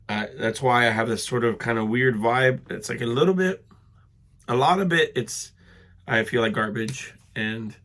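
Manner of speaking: stuffy, sick, congested voice. Real, not acted. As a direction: talk through a head cold, congested. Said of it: "I feel like I sound like garbage".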